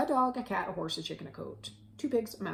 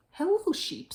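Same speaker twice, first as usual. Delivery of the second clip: higher, louder duck hello; cheery duck greeting; 9 semitones higher, 6 dB louder than usual. A narrator's reading. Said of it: "said Duck".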